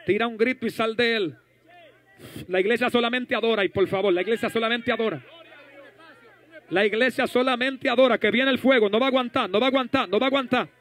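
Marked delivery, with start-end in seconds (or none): 3.4-10.7 insistent, driving repetition; rally the church with raised voice; fervent preaching. Real, not acted. Preacher telling the church fire is coming, fervent preaching.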